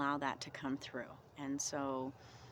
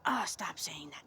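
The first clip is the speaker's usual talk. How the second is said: whispered self-scolding; 4 dB louder than usual. Retold or imitated. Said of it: "words that I'm like".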